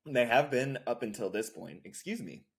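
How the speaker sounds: throat catching after a sip of water; choking on water. Real, not acted. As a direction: push words past a choking throat. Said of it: "Choking on water here".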